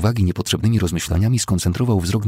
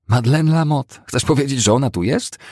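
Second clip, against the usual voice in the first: high, louder startled questioning; astonished question; 8 semitones higher, 5 dB louder than usual. A narrator's reading. Woman asking whether Madeleine is here, astonished and high. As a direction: question it in raised disbelief. Cousin feigns astonishment at the news.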